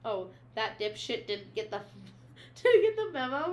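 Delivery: exasperated, pitch jumping up on the last phrase; retold mad. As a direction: quote him incensed, stumbling over the words. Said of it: "gets so mad".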